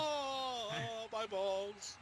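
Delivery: drawn-out falsetto-style wail of pain; mock soprano. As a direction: imitate the hurt wrestler singing soprano. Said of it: "he'll be singing soprano for a while".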